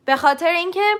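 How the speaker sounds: usual speaking voice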